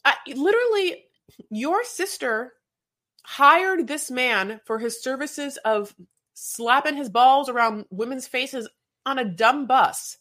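slow, high, every word spelled out in disbelief; exasperated rant. Real, not acted. Cohost venting about the sister's hire, slow and high. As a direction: lay it out slowly like it's absurd.

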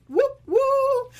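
high, loud, held-out cheer; celebratory whoop. Real, not acted. Fan celebrating the band's chart debut, excited. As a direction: whoop it up, second one soaring.

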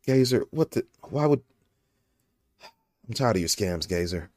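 lightly voiced flat, tired friend with a sigh; a hint of a weary, frustrated friend; monotone Steuben impression. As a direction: drone it out, fed up with everything. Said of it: "I would talk real monotone like this".

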